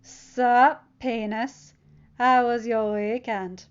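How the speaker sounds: loud, slow, sneering taunt; snide. Acted. Bully taunting Peter at lunch, snide. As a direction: drag it out mockingly. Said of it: "Flash asked snidely".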